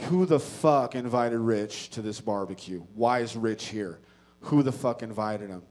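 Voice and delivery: outraged. Retold or imitated. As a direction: demand it furiously. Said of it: "I react irrationally".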